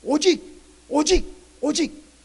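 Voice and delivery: each 오직 punched loudly and drawn out; emphatic stress on 오직. Shown as a demonstration. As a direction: hammer 오직 as a separate, forceful beat. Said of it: "하나님이 그 말을 아주 강조해요". ('오직'을 하나씩 힘주어 강조)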